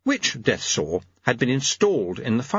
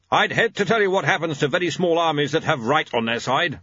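higher-voiced old warrior; War; 5 semitones higher than usual. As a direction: reason with an old friend as War.

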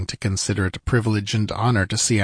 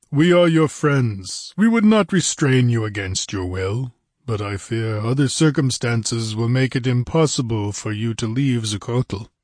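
lightly voiced ponderous ruler; a hint of a stately prince; Olmec's measured assurance. Olmec reassures the guests.

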